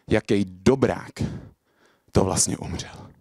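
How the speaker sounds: deliberate ending with long pauses, sinking in pitch; slam poem punchline. Acted. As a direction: drop from the shouting into spaced-out phrases. Performs slam poem on stage.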